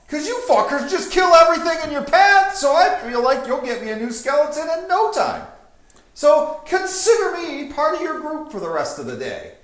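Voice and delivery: high and loud, pushy; demanding necromancer. Acted. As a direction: insist on tagging along. Necromancer demands to join group.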